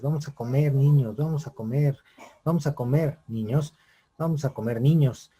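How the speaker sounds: mild eager calling; emotive calling. Shown as a demonstration. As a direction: call the kids over and over, building. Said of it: "todas con una expresión emotiva".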